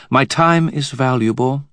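high, imperious queen voice; cold queen Mab. A narrator's reading. Queen to the wizard, haughty and high. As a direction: speak down to them as a queen.

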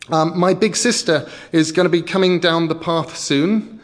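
put-on high, loud little boy; eager kid talking fast; child voice. Child lies to troll.

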